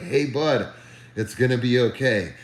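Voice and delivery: easygoing voicing of a reassuring pilot; retold pilot's reassurance. Pilot turning round to a panicking passenger, casually reassuring. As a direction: reassure a nervous passenger, at an everyday volume. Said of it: "he was like".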